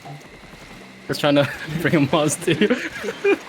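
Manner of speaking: slow words broken by laughter; laughing confession. Real, not acted. Caught trying to lure his friend, laughing. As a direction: giggle through the admission. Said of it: "confessing with a laugh".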